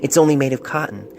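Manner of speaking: a touch lighter, tender reading; lightly voiced letter writer. Doctor reads the patient's love letter aloud, lightly voiced. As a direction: read the love letter as its young writer would say it. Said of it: "lightening his pitch".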